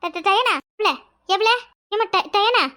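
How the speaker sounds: stuttering on ட- in panic; can't get the name out for fear; shaky, broken calling of Diana; frightened stammer. Acted. Finds Diyana collapsed, stammers.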